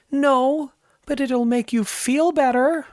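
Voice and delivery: high, whispery mock reassurance; mock principal whisper. Principal teasing the teacher about his attaboy, high mock whisper. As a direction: breathe it high like a smug boss.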